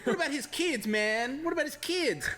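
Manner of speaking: high, laughing outrage; indignant rant. Retold or imitated. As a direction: rant about the old man's family. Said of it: "He's like".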